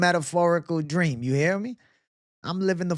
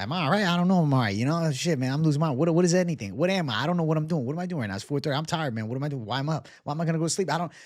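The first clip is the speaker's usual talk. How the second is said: rambling, anxious self-questioning; retold freak-out; faster than usual. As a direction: act out a mounting stoned panic. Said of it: "I start fucking freaking out".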